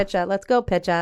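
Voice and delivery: light mock Boston cheer; hint of a Boston accent calling the pitcher. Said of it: "in the Boston accent".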